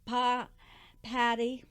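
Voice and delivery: wrong parrot call. Acted. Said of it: "that did not sound correct".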